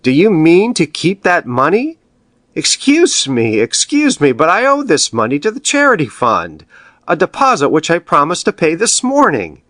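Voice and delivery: nervous banker trying to take back his bonds; flustered alarm. Acted. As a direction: plead to get the money back, alarmed. Banker panics over his money.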